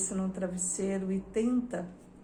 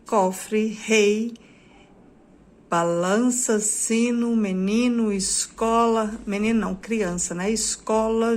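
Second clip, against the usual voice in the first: slow list reading; 4 dB louder, slower than usual. Shown as a demonstration. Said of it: "Aquela mesma lista agora com desenhos".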